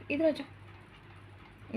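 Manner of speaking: slow whispered "come here"; whispered coaxing. Real, not acted. Mother whispering to her son to come over, slow whisper.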